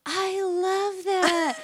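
put-on high, slow gushing southern accent. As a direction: gush in a sweet southern accent. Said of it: "she's kinda got, like, a southern".

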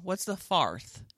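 "farth" with an AR vowel; O words like R. Retold or imitated. Improviser repeating the lady's accent, "farth" said with AR. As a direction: say "farth" with AR in place of OR. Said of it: "said all her O words like R".

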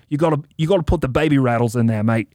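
a hint of a British accent, slightly quick; a loose British accent that drifts toward Australian; attempted British accent. Cohost quoting a British guitarist in a light British accent. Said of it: "I'm gonna see if I can do a British accent".

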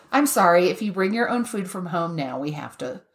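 lightly imitating a gentle, apologetic official; calm, polite. Retelling the TSA woman who wanted to wand her sandwich, calm and polite. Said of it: "she said it in a very calm, you know, polite".

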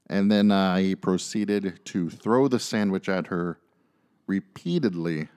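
ordinary talk

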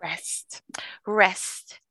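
soft whispered echo of the word. Real, not acted. Savouring the word rest in an interview.

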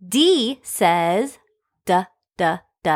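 d d d as short clipped d sounds; phonics d sound. Shown as a demonstration. Teacher modelling phonics for children, short d sounds. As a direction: tap out the d sound. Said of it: "Let's go over our phonics today".

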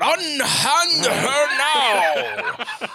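very slow, drawn-out, high declaiming; hammy stage actor. Pretend. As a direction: stretch it out like ham actor. Mock knight stage line repeated.

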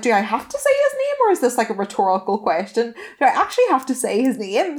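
high-pitched baffled questions, laughing; incredulous retort. Retold or imitated. To her ex in bed, high disbelieving laugh.

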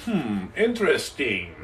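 low, soft, drawn-out murmur; low-key musing. Acted. Hiding his crypto thoughts on house arrest, low-key musing. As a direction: keep it low and noncommittal. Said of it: "have to kinda keep it low".

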